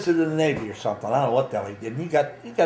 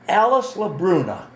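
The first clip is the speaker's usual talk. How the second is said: higher-pitched classroom name call; teacher's roll call; 5 semitones higher than usual. Retold or imitated. Teacher reading the roll to a new class, calling out. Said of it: "he's calling a roll call".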